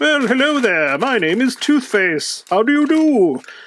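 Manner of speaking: very high, loud, squeaky hand-puppet character voice. Speaker working a hand puppet on camera and voicing it: Toothface puppet voice. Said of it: "I'm not really sure why I used that voice".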